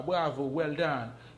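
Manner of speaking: well done said slowly and clearly; teacher modelling well done; slow model phrase. Shown as a demonstration. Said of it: "Yo di bravo an angle".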